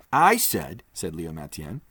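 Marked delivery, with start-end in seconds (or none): 0.1-0.8 higher and louder, decided voice; a resolute man declaring the plan; firm Leo. Acted. Leo Mathienne repeats.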